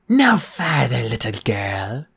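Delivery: a hint of a stern cat goddess; commanding. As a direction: warn her off with slow command. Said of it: "Bastet commanded".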